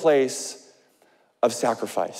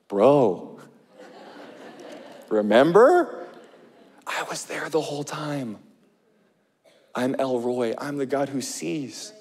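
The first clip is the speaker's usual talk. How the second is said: God reassuring. Retold or imitated. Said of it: "And he's like".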